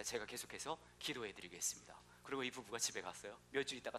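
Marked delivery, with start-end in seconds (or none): 0.0-1.9 soft, almost whispered promise; hushed pastor. Retold or imitated. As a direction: murmur it like a gentle pastor. Pastor quoted in joke. (속삭이듯 조용히)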